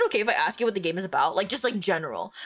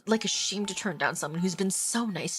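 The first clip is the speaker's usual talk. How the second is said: story narration; 2 semitones lower than usual. Acted. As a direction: read the scene aloud steadily. Reads visual novel narration.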